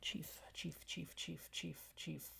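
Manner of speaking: very soft whisper to herself. Real, not acted. Trying out the chief's voice, under her breath in a whisper. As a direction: whisper the word over while thinking.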